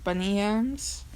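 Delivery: "Bunny Yams" slowly drawn out, rising at the end; weird pronunciation. Real, not acted. Reader unsure of an artist's name, oddly drawn-out "Bunny Yams". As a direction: stretch "Bunny Yams" into a slow, odd question. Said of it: "Why did I just say that so weirdly?".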